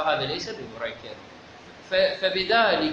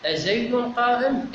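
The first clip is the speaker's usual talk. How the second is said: "أزيد قائم" asked on a higher pitch; example question; 5 semitones higher than usual. Shown as a demonstration. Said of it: "يعني تقول هكذا".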